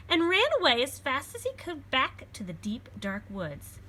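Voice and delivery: put-on lively read-aloud for children; storybook reading. A narrator's reading. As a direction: read it like a picture book to a class. Reads picture book aloud.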